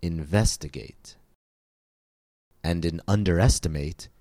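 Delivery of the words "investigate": Investigate with stress on VES; stress on second syllable. Shown as a demonstration. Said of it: "it falls on the second syllable".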